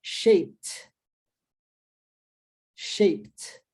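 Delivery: "Shaped" clearly in one beat, long gap between; repeat-after-me model. Shown as a demonstration. Teacher has learners repeat, isolated careful "Shaped". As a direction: model "Shaped" with crisp t ending, then wait. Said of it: "vou falar para que você repita".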